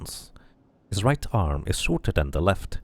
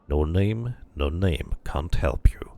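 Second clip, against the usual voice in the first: sing-song dustman; 2 semitones lower, slower than usual. Acted. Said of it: "The dustman speaks in a curious sing-song voice".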